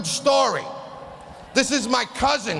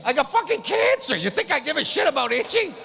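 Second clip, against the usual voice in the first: incredulous outburst; 4 semitones higher than usual. Retold or imitated. Outburst at chemo staff.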